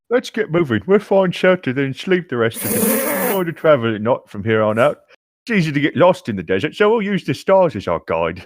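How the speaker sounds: a guide rallying the group to move on; Bjorn in character. Acted. Guide telling the party to travel by night, lightly voiced.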